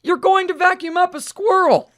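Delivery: high, lightly shouted quote; mild mock shout. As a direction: toss off the shouted line again. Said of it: "who would ever think you would shout".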